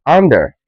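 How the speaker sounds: under with an open ah; correct ah vowel. Shown as a demonstration. Teacher giving the right under, open ah. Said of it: "you say under".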